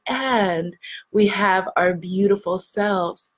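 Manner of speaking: measured, earnest prayer voice; group prayer. Real, not acted. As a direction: give thanks to God on behalf of the group.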